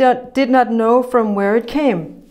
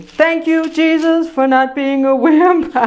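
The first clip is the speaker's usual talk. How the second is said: joyful prayer; 4 semitones higher than usual. Retold or imitated. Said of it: "I sang it to him".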